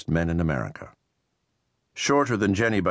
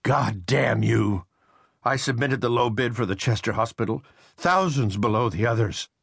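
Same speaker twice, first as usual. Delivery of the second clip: shouting Riley; 5 semitones higher than usual. A narrator's reading. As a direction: bellow it out in rage, pitched up. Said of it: "Riley shouted at him".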